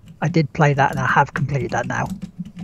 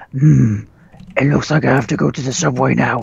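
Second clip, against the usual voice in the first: growling Adam Jensen; 3 semitones lower than usual. Retold or imitated. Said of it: "growling every five minutes going".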